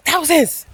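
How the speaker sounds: Thousands pitched high and stressed; emphatic. Real, not acted. Stresses how many people met.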